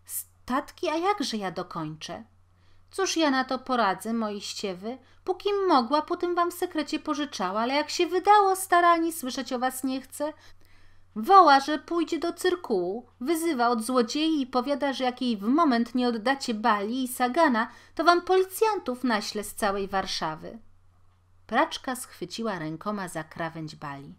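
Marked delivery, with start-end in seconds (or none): 0.0-2.2 higher, rising dismay; panicked disbelief; alarmed protest. A narrator's reading. Washerwoman to the neighbour, higher and alarmed. 2.9-20.6 much higher, louder frantic explanation; agitated neighbour. A narrator's reading. Neighbour to the washerwoman, high and frantic.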